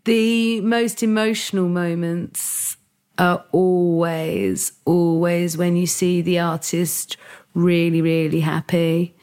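slow, half-whispered, choked up; getting emotional. Real, not acted. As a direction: fight back tears as you speak. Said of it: "I'm gonna get emotional now".

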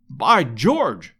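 punchy, perplexed outburst; a mild cry of bewilderment; perplexed exclamation. A narrator's reading. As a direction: exclaim it in puzzled astonishment. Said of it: "cried our peer".

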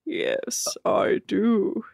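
slow put-on deadpan voice; Rob. Host as Rob offering Nick a joke, deadpan. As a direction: answer in a stiff, measured monotone. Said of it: "What's that, Rob?".

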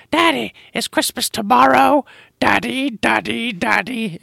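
put-on high child voice; whiny kid calling daddy; little girl voice. Daughter voiced in story.

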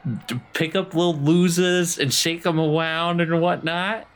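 high indignant pushback, fast at first; defiant retort. Acted. Dee telling the angry man off, indignant and high. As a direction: stand up to him, indignant.

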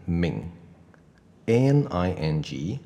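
slow "ning", nasal ending with a rise; teacher modelling "ning" slowly; ning demo. Shown as a demonstration. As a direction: drag out "ning" slowly, rising at the end. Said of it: "就会念成ning".

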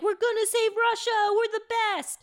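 high, loud self-congratulation; gloating. Retold or imitated. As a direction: cheer like smug conspirators. Accomplices congratulate themselves.

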